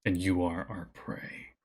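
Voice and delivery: lightly voiced wolf, slow and a bit low; a hint of a menacing wolf leader; snarling alpha wolf. The alpha wolf warning the player, slow, lightly menacing. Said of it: "looks at you and snarls, and he says".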